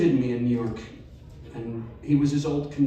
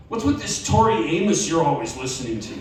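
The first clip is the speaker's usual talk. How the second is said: sharp, louder teasing jab, rising higher on the plaid line; irritated mocking brother; 5 semitones higher, 5 dB louder than usual. Brother mocking his sibling's college style, irritated and scornful. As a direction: needle the sibling about his music and clothes. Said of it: "which obviously irritated him".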